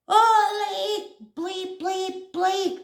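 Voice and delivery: high, drawn-out mock cursing; alarmed exclamation. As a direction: imitate a friend swearing in shock. Retells friend's alarmed swearing.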